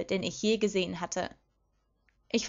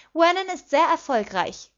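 higher, louder, haughty boast; 8 semitones higher, 7 dB louder than usual. A narrator's reading. Petunia boasts of her boyfriend's success, haughty. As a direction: show off with a superior air. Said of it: "erklärte Petunia hochmütig".

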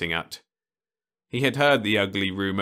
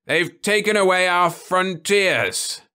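much higher, louder, slow lament; grave old man; 12 semitones higher, 8 dB louder, slower than usual. Acted. Osmond answers Ludovic with a slow, heavy lament. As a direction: mourn each word.

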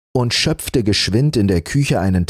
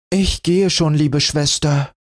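put-on higher, kindly girl's reply; friendly; 8 semitones higher than usual. A narrator's reading. Rotnas answering her spoiled sister, friendly. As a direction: gently agree to go. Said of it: "sagte Rotnas freundlich".

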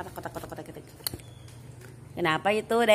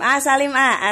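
coaxing; 5 semitones higher, 6 dB louder than usual. Acted. Coaxing the baby to greet.

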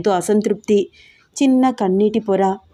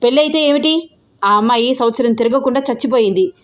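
angry outburst; 3 semitones higher than usual. Acted. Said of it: "uncle విరుచుకు పడుతున్నాడు".

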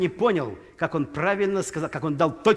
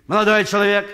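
louder call after him; mock doorman shout; 3 semitones higher, 6 dB louder than usual. Doorman calling after a guest, louder call. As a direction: hail him from behind, louder. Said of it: "Швейцар кричит".

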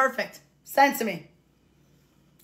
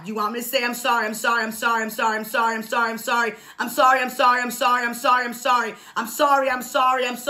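sorry after sorry, mocking the demand; mock endless apology. Streamer mocking chat's demand for apologies, sarcastic rapid repeats. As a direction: rattle off I'm sorry over and over, sarcastic. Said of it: "I can sit here and say I'm sorry".

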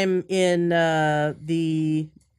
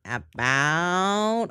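her own accent on "About", round ow vowel; "About" said with the ou of her home accent; "About" the way it comes out of her naturally. Shown as a demonstration. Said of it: "I can't say about like an American".

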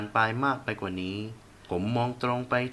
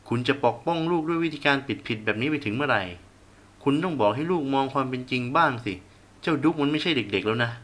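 heated rebuke, a bit louder; angry scolding; 3 semitones higher, 3 dB louder than usual. Acted. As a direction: lecture her hotly. Father scolding mother in quarrel. (พ่อดุแม่ด้วยความโมโห)

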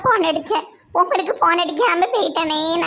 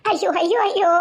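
wailing; 2 semitones higher than usual. Acted. Wife wails over dying father.

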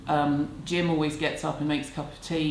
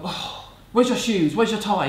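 nagging parent; 4 semitones higher, 5 dB louder than usual. Retold or imitated. Mock nagging at a kid walking in, mildly raised. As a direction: lightly play the fault-finding parent. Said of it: "Do you look at them and go".

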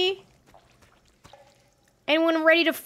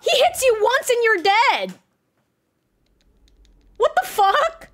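real fear, voice up high and strained; panicked high cries; 9 semitones higher than usual. Real, not acted. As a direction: cry out helplessly while being chased. Fighting monster, panicking.

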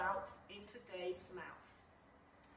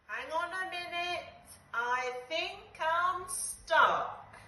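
high, slowing dismay; surprised; 8 semitones higher, 6 dB louder, slower than usual. Acted. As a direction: realise it with growing alarm. Dave realizing he's stuck.

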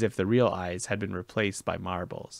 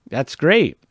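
excited satyr voice; 5 semitones higher, 11 dB louder than usual. Acted. Grover excited.

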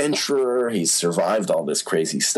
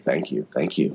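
polite, weary thanks; 7 semitones lower than usual. Retold or imitated. Star answering a gushing fan, politely unmoved. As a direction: give thanks with little energy, pitched down.

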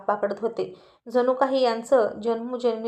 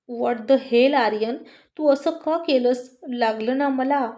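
complaining yell; slower than usual. Acted. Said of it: "असं म्हणून स्वीटी ओरडायला लागली".

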